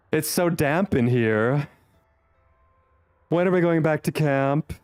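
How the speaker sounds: lightly voiced vampire companion, British; modern british accent. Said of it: "Love your Astarion R P voice".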